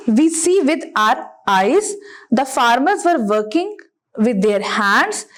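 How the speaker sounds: very slow, word-by-word classroom reading; measured teacher dictation with drawn-out words; slow exercise read-aloud. Shown as a demonstration. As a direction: read each sentence out deliberately for pupils. Reads exercise sentences to pupils.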